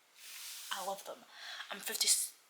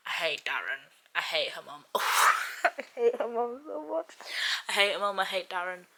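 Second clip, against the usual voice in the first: laughing, exaggerated rage at characters; mock fury; 4 dB louder than usual. Real, not acted. Reader fuming at characters in a book, mock rage. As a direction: vent a mock hatred, rising loud.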